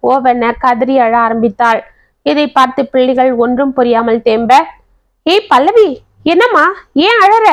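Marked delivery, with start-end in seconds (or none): 5.3-7.5 higher-pitched, concerned questioning; raised pitch with mild alarm; concerned husband. A narrator's reading. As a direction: call out to a crying wife, worried. Husband finds his wife crying.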